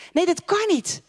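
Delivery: stubbornly repeating the no; insistent doubt. Retold or imitated. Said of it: "en dan denk je".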